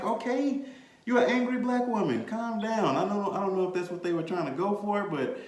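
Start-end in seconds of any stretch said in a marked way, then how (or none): 0.0-3.0 mock sarcastic. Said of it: "I'm like".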